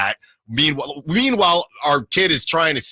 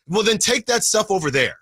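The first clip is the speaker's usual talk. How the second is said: exact annoyed tone; 4 semitones higher than usual. Shown as a demonstration. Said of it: "Give me the exact tone".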